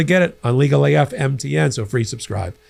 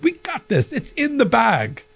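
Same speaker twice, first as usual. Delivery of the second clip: retold confidence; 7 semitones higher than usual. Retold glee at expected win.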